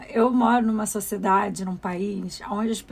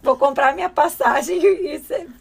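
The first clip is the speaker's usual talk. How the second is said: higher mock-dramatic carefree joy; 4 semitones higher than usual. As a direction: ham up the happy traveler. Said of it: "Eu fico".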